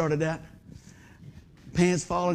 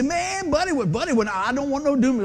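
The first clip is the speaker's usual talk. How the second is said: higher, agitated protest; mock mourners; 6 semitones higher than usual. Pastor voices people reacting to his funeral, mock mourners. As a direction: wail in mild mock dismay.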